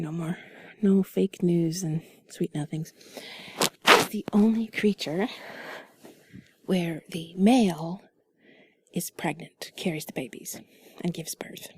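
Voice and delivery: soft breathy whisper, close to mic; sultry narrator. Acted. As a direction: whisper it like sweet nothings. Whispered intimate chat continues.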